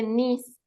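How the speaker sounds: niece as a long "nis"; pronunciation demo. Shown as a demonstration. Teacher giving the word for sobrina, slow model. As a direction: say niece slowly, one drawn-out syllable. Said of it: "se dice".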